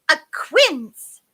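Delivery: high, loud mishearing; fairy figure. A narrator's reading. Half-deaf fairy mishearing the queen, declaring. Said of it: "said the fairy".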